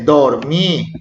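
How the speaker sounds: "dormí" slowly, dor-mí; split into syllables. Shown as a demonstration. Teacher giving another past-tense example, "dormí" syllable by syllable. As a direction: separate the two syllables of "dormí". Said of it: "la siguiente sílaba es mi".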